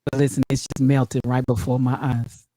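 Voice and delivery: low smooth pickup guy; man voice. Pretend. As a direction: lay on the charm, low. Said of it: "man voice so good".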